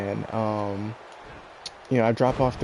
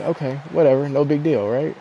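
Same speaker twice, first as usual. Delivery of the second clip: dismissive whatever; 4 semitones higher, 5 dB louder than usual. Retold or imitated. Retold dismissive reply, louder.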